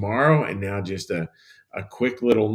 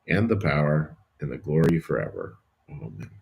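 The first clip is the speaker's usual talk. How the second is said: steady, reverent recited prayer; solemn Lord's Prayer recitation; 4 semitones lower than usual. Acted. Prays the Lord's Prayer aloud.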